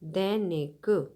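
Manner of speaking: दैनिक drawn out slowly, both syllables clear; slow word demo. Shown as a demonstration. Teacher sounding out a word for children, very slow. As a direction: stretch दैनिक for the kids. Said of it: "दैनिक means प्रतिदिन".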